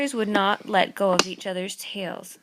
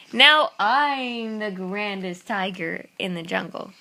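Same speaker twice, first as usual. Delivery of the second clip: slow, proud tiger voice; boastful tiger; slower than usual. Acted. Tiger bragging as he walks off, slow proud voice. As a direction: strut off bragging slowly.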